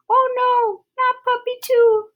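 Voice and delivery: high-pitched worried exclamation; dismayed cry. Acted. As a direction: gasp it out in high alarm. Dismayed character cries out.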